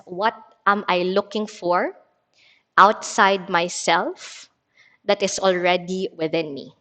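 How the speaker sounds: measured, spaced-out reading of a guiding question; meditative card reading. Acted. Teacher reading a card to a meditation class, measured and meditative.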